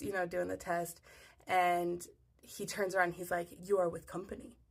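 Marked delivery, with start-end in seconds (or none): 3.6-4.6 lightly imitated Nigerian accent, measured. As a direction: quote the nurse in a Nigerian accent. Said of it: "He's got this thick accent".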